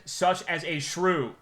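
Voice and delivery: ordinary talk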